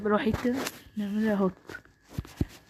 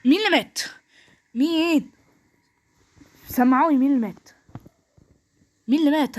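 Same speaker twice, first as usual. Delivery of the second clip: calling out; 3 dB louder than usual. Real, not acted. Calling out to teammates after a kill.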